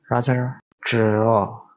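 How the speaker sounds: tro said slowly, t-r then o; slowed sound breakdown. Shown as a demonstration. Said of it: "you have to make a tr sound and o sound".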